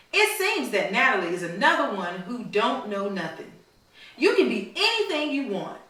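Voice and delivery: storybook read-aloud to a class; reading to children. A narrator's reading. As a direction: read it like a story for little kids. Teacher reads picture book aloud to class.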